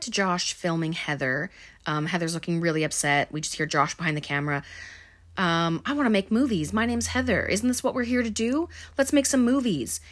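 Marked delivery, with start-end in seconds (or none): 5.9-10.0 high, taunting mimicry; hammed-up mockery in raised pitch; mocking imitation. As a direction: sneer at someone by parroting them. Mocking Heather behind the camera.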